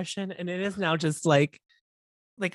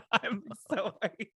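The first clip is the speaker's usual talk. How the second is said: laughing reply; 4 semitones higher than usual. Retold or imitated. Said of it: "my response was like".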